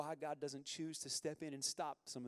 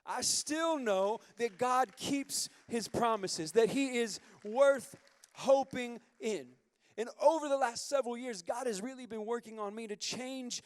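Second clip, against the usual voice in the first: impassioned preaching; 5 semitones higher, 8 dB louder than usual. Acted. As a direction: preach it out to the back row. Preacher builds to full force.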